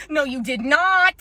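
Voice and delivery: spaced-out, appalled comeback; offended disbelief. Retold or imitated. Worker reacting to the mother's retort, appalled.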